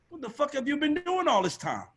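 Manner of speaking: high-pitched indignant complaint, hammed up; mock indignation. Signed artist blaming the A&R, mock indignant. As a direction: imitate an entitled artist's outraged demand.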